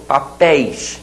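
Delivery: "Papéis" with an open éi; stressed final ÉI in "Papéis", open E; open diphthong. Shown as a demonstration. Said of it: "você faz com ditongo aberto".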